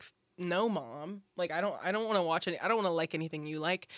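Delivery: ordinary talk, nothing marked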